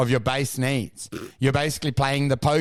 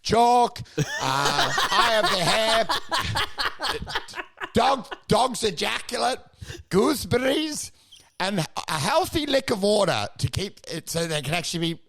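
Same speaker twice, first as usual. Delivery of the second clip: laughing through list; 4 semitones higher than usual. Retold or imitated. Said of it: "And you're like".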